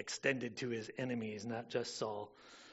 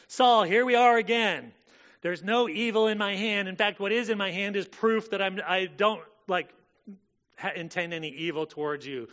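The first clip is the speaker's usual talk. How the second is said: loud, higher pleading voice; impassioned paraphrase; 6 semitones higher, 9 dB louder than usual. Acted. Preacher voicing David pleading with Saul, loud and earnest. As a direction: press your innocence on him.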